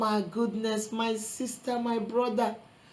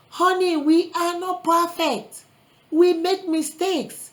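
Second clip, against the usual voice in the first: tender; 5 semitones higher, slower than usual. Real, not acted. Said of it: "gentle aside to congregation".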